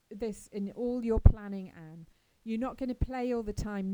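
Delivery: put-on firm, no-nonsense warning to a dreamy child; stern Marilla. Marilla warns Anne that work comes first, sternly.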